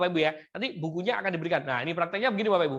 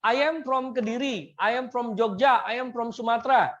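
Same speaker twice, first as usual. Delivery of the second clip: slow, higher classroom English; slow model sentence; 4 semitones higher, 4 dB louder, slower than usual. Shown as a demonstration. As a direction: spell it out slowly for students to repeat. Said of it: "Contohnya begini Bapak Ibu".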